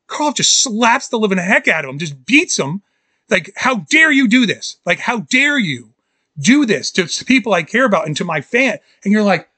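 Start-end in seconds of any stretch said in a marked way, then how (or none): 3.6-8.8 indignant, higher-pitched scolding; lightly acted offended reproach; mock outrage. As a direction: scold as if personally wronged. Acting out Karloff's outraged scolding.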